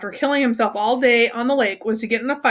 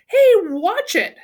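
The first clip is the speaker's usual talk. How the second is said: higher, louder and slow, a warning snap; tough kid snapping; 9 semitones higher, 5 dB louder, much slower than usual. Acted. Tough kid snaps at Stanley who tripped over his leg, higher, louder, slow.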